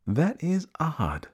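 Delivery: high, slow wondering voice; puzzled child character. Acted. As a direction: muse slowly like a baffled young elephant. Elephant's child puzzled after a spanking.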